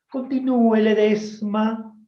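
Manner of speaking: softened teacher, slow on the name; sweetened voice. Retold or imitated. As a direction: coax the favourite pupil gently. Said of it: "dulcificando la voz". (maestra dulcificando la voz)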